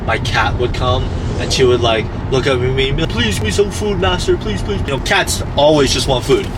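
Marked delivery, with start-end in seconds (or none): 3.1-4.8 high pleading cat voice; begging cat voice. Pretend. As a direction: plead like a hungry pet.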